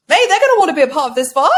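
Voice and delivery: fast, loud, swaggering brush-off; cocky hype. Retold or imitated. On the treadmill brushing off doubt, cocky fast swagger. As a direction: strut through it like on a runway.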